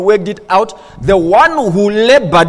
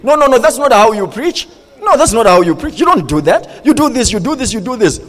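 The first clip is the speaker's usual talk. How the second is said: mock insistent correcting, pitch jumping up on the objections; pressuring; 4 semitones higher than usual. Husband correcting his wife's preaching, pressuring. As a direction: push the corrections, one after another. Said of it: "I began to put pressure on my wife".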